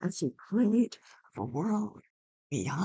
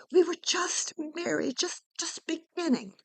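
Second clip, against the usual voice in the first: tearful plea; 9 semitones higher than usual. Acted. Orpheus pleads, voice breaking.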